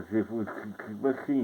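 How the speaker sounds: slushy lisp on "tipo, tipo assim"; "tipo, tipo assim" drawn out slowly with a Daffy Duck-like lisp; tongue-tied lisp. Shown as a demonstration. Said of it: "Vou falar com a língua presa".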